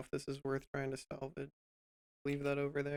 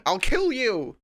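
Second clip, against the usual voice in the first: loud, higher furious yell; berserk rage; 7 semitones higher, 10 dB louder than usual. Pretend. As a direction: scream it at the computer. Yelling at the program.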